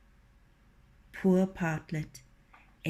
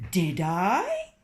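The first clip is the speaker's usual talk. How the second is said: innocent surprise; 4 dB louder than usual. Acted. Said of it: "said Reynard, surprised".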